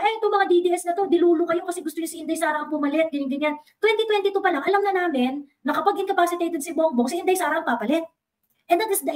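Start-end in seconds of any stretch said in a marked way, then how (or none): 0.0-3.1 high, fast sneering mock voice; mimicking critics who call DDS voters crazy, fast and high; mocking impression. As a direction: rattle it off as a taunting caricature. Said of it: "Ang gusto nilang palabasin".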